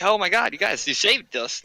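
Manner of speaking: high, excited cheer of relief; cheering townsfolk. Retold or imitated. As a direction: gush like a saved villager.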